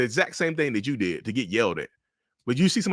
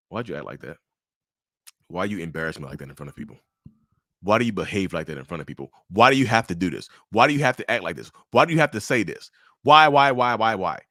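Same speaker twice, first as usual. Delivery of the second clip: hushed then angry; 4 semitones lower than usual. Retold or imitated. Narcissist scolding partner once the door shuts, building up. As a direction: hiss it then let it boil over.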